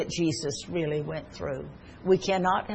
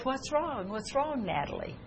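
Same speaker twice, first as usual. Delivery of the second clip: soft, higher-pitched coaxing question; gentle concern; 5 semitones higher, 9 dB quieter than usual. Retold or imitated. Grandparent asks crying granddaughter what happened, soft gentle concern.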